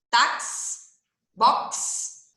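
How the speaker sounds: Táxi and box whispered to show the ks; ks sound demo. Shown as a demonstration. Teacher whispers Táxi and box to show the ks. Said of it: "O mesmo que táxi".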